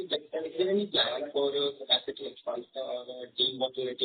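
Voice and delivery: muffled phone voice. Real, not acted. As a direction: sounds through a wall. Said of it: "you sound muffled".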